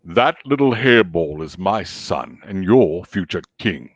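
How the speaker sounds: deep, slow lion-king voice; low, stately royal pronouncement; James Earl Jones. Acted. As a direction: proclaim it low like a regal father. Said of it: "Lion King".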